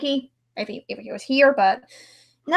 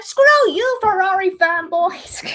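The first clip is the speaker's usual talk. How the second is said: mock outburst; 6 semitones higher, slower than usual. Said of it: "I'm like".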